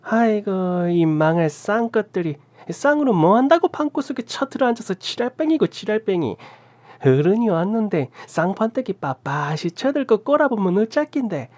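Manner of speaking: put-on an old aunt unleashing a torrent of curses; Gyeongsang cursing tirade. A narrator's reading. Aunt bursting into the room, cursing in Gyeongsang dialect. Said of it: "쌍욕을 경상도 사투리로 찰지게 쏟아붓자".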